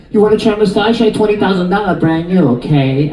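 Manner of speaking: put-on nail lady's sales pitch in Chinese accent; lightly put-on Chinese accent; imitated Chinese accent. Nail lady pushing the massage chair, imitated Chinese accent. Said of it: "That's her accent".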